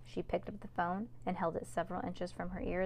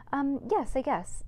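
nervous, strangled little yes; choking on words; 7 semitones higher, 4 dB louder, slower than usual. Acted. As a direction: force the words out haltingly. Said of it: "choking on her words".

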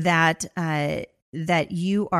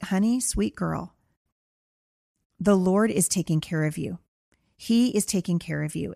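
tender to daughter. Retold or imitated. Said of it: "I was like".

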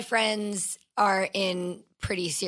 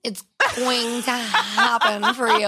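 slow, sugary reassurance; mock reassuring friend; slower than usual. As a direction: patronize them gently, drawn out. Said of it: "they're like".

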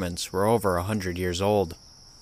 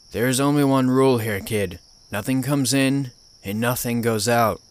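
put-on old gruff voice; 3 semitones higher than usual. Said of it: "an old gruff voice came from the other end".

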